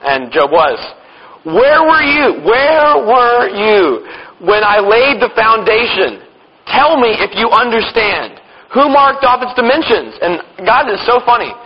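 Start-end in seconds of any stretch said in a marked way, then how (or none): 1.4-10.2 slow, weighty reading of the Lord's questions; a hint of God speaking. God demands answers from Job, in a slow, weighty reading. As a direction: lean on each word as God confronting Job.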